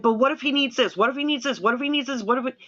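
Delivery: a new mom's fretting; retold panic. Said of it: "I was freaking out".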